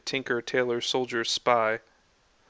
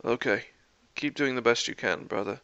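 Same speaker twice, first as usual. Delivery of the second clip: gentle; 4 dB quieter than usual. Acted. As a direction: comfort your brother softly. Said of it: "gently squeezing his shoulder".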